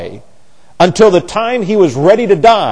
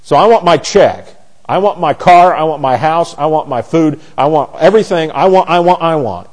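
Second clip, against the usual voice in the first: mock greedy demands. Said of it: "So I've got pre-traumatic".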